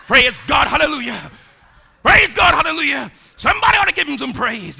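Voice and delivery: loud, high hallelujah shout; shouting praise. Shown as a demonstration. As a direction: whip up the crowd with praise. Acting stage healer praising God.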